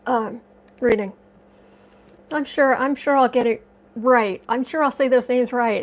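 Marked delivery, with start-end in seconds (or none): 2.3-5.8 wry self-mockery. Real, not acted. Self-mocking about name mixups.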